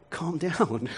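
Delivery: soft, laughing brush-off; laughing calm down. Retold or imitated. Father soothing his anxious son, soft laughing brush-off. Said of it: "and I'll be like".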